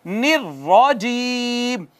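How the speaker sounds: निर्रजीम slow, with a doubled, struck र; slow निर्रजीम with a stressed, doubled र; Quranic recitation. Shown as a demonstration. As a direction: recite निर्रजीम slowly, hitting the र. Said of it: "निर्रजीम में आप देखें".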